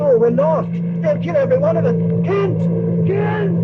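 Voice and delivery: high, rising panicked cries; terrified panic. Acted. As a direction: scream for help as doom closes in. Gang boarding, professor panics.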